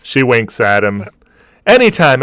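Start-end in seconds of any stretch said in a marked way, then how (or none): 1.7-2.2 barmaid voice. Acted. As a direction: gently offer the whole box to a regular.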